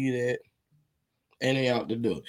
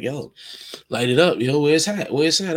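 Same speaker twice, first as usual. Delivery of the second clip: louder, pushy and excited; eager demand; 3 semitones higher, 5 dB louder than usual. Retold or imitated. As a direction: uncle barging in demanding the weed, louder and eager. Uncle eagerly demanding weed.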